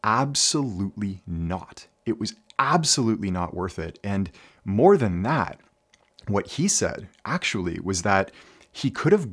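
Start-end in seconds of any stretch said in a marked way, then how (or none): 0.0-4.0 firm retold denial, leaning on "Absolutely"; emphatic answer, stretched out at the start. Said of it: "said emphatically".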